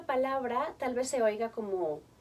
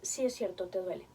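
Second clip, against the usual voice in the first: validación suave; 4 semitones lower, 4 dB quieter than usual. Shown as a demonstration. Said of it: "la reacción inmediata de los padres tendría que ser".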